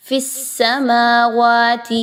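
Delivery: فی السماوات slow, with a strong whistling س; whistling seen. Shown as a demonstration. Teacher models the sound for students, strong whistling sibilant. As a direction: stretch فی السماوات and hiss the سین firmly. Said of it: "مضبوطی کے ساتھ سیٹی کی آواز سین میں لائیں گے".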